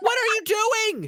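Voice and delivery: screaming in shock. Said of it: "I'm screaming my head off".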